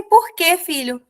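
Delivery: a mother caught off guard, asking gently; surprised question. Retold or imitated. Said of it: "Eu falei". (pergunta surpresa e carinhosa ao filho)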